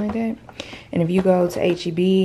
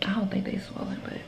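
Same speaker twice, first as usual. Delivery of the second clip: whisper; 12 dB quieter, faster than usual. Real, not acted. Tired aside to camera.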